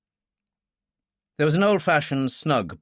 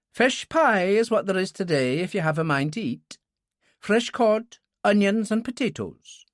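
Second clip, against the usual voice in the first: landlady's voice; 9 semitones higher than usual. Acted. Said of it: "she added in English".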